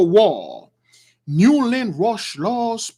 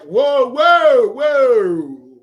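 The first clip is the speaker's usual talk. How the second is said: startled stop; 3 semitones higher, 4 dB louder, much slower than usual. Real, not acted. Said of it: "stopping himself".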